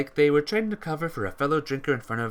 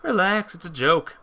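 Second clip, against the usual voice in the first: laughing reassurance; 6 semitones higher, 6 dB louder than usual. Acted. Teasing reassurance after joke.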